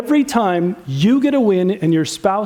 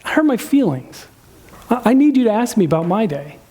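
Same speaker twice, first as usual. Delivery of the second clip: calm request. Acted. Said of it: "The master would say it this way".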